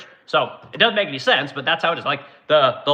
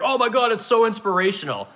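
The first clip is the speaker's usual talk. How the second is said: sarcastic awe; 6 semitones higher than usual. Retold or imitated. Mocking praise for the Artemis rocket.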